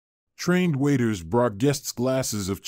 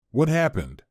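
alarmed; 4 semitones higher than usual. A narrator's reading. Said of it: "she asked, alarmed".

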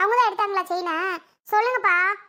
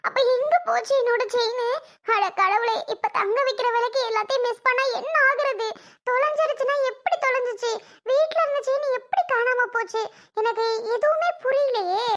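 higher, frantic wail over the lost chain; panicked wife; 4 semitones higher than usual. Acted. Wife frets to husband about her lost gold chain, high and frantic. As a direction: fret aloud, voice climbing.

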